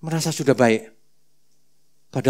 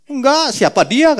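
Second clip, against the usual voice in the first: higher, slow, rising fake innocence; mock Peter feigning not to know; denying Peter; 11 semitones higher, 3 dB louder, slower than usual. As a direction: play dumb, stretching it out. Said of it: "kata Petrus".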